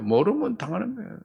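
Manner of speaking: 모르면 당하는 거예요 said softly with a rising tune; hushed repeat ending in a rise; quiet. Shown as a demonstration. Preacher softly repeating 모르면 당하는 거예요 to the congregation, quiet rising tune.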